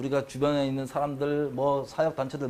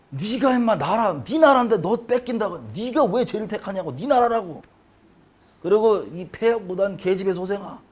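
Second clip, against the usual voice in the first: higher, scolding father's rant; retold angry scolding; 3 semitones higher than usual. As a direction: rant at the son like Saul would. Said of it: "막 욕하면서".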